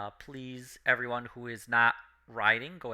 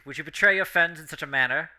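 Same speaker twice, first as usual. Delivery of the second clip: Val, a touch louder and stern; lightly voiced noble reproach; stern knightly voice; 3 semitones higher, 6 dB louder than usual. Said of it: "Val does speak to you".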